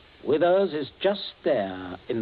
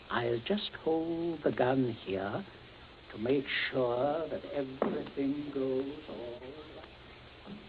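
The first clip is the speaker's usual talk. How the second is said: quiet menace; 6 dB quieter, slower than usual. Acted. Menacing calm with the gun.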